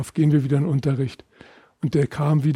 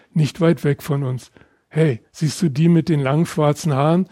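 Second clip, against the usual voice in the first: a lively, slightly raised reading voice; reading aloud. A narrator's reading. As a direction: read your memoir to an audience. Author reads his memoir aloud.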